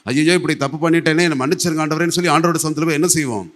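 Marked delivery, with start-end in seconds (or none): 0.0-2.2 loud mock plea for forgiveness; acted remorse. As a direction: cry out a penitent's regret, acted. Acting out a penitent's plea. (நடித்துக் காட்டும் மனம் வருந்திய கெஞ்சல்)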